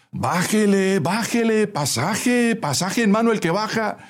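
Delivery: high-pitched repetitive chant; calling out. A narrator's reading. Fare collector calling for fares, calling out. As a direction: sing out the call at a high pitch.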